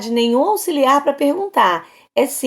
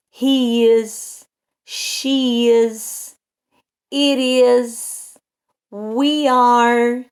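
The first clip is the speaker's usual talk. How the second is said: slow, evenly spaced English model phrases; measured classroom conjugation drill; language drill recital; much slower than usual. Shown as a demonstration. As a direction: recite each form separately for learners.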